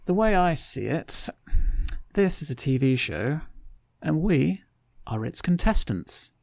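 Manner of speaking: high, light feminine voice. A narrator's reading. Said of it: "in a rather feminine voice".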